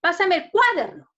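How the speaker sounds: "cuaderno" with CUA punched high and loud; wrong stress on CUA. Shown as a demonstration. Teacher testing it in a request, stress on CUA in "cuaderno". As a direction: hit the first syllable of "cuaderno". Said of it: "en la cual la mayor fuerza de voz".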